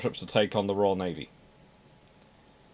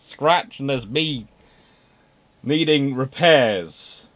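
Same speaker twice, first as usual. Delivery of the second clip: high, loud, whining complaint; high pleading mock whine; whiny ship voice; 6 semitones higher, 6 dB louder than usual. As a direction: whine like a hard-done-by sibling. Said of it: "And Australia going".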